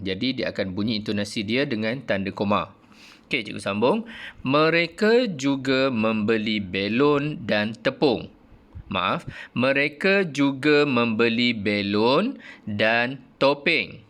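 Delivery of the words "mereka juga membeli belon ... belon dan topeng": slow reading aloud; model reading. Shown as a demonstration. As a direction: read slowly for pupils to copy. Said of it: "mengikut intonasi yang cikgu ajar". (bacaan contoh perlahan)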